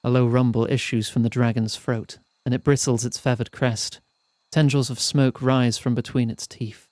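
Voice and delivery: measured, evenly paced storyteller; story narration. A narrator's reading. Narrator telling players of a perilous mountain climb, storytelling. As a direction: read it out like an audiobook narrator. Reads the game's narration aloud.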